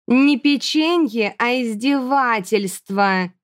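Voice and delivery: slow, drawn-out grumble; grumbling Erji. A narrator's reading. Chubby girl complaining about cookies, slow grumble. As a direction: sulk over the cookies. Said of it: "буркнула Эрджи".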